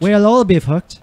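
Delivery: WHALE OIL BEEF HOOKED blended into one phrase; run together. Shown as a demonstration. Friend trying the trick phrase, words run together. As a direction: say "We'll all be hooked" as one connected sentence. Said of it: "Like, normal speed".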